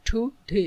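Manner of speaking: "টু ডে" split in two, a gap between টু and ডে; syllable by syllable. Shown as a demonstration. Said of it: "দুইটি vowel sound আছে".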